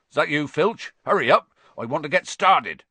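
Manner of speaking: loud call from across the grounds; distant shout. Acted. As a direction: shout it out from far away. Hagrid shouting from afar.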